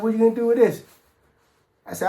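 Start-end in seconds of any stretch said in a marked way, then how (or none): 0.0-0.8 high-pitched, suspicious retold question; incredulous questioning. Buddy asking what he wants the sack for, incredulous. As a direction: imitate a buddy taken aback.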